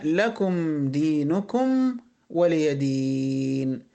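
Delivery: slow closing chant; Quran recitation. Shown as a demonstration. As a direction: recite slowly, drawing out the last vowel. (تلاوة ختام السورة بتمهّل)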